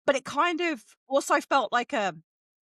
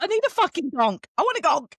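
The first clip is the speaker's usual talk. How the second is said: louder, insistent echo; emphatic demand; 4 semitones higher, 3 dB louder than usual. Retold or imitated. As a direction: say it like you crave it. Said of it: "at the end, she's like".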